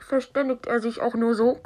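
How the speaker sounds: radio-filtered voice; as if over a walkie-talkie. Shown as a demonstration. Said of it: "durch ein Walkie-Talkie".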